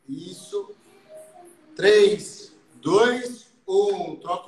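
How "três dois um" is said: counting workout reps. Real, not acted. Coach counts final reps.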